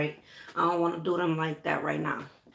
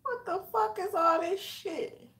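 exasperated disbelief; 11 semitones higher than usual. Real, not acted. Seeing residue in his hair.

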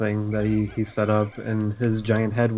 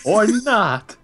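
playful sing-song; 9 semitones higher, 5 dB louder, slower than usual. Retold or imitated. Voicing game sample.

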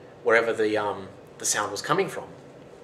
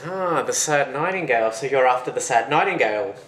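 knowing realisation; 4 semitones higher, 5 dB louder than usual. Acted. Giant learns the young man seeks the nightingale, knowing realisation. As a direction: savour it, knowingly.

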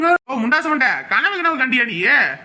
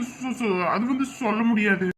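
sheepish mumble; 3 semitones lower, 6 dB quieter than usual. Acted. Cornered man mumbles evasively.

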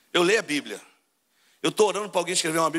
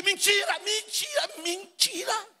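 preacher's outcry; 11 semitones higher, much slower than usual. Acted. Preacher calls out to his flock in a high shout that fades. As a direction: hammer the word home, then let it fall away.

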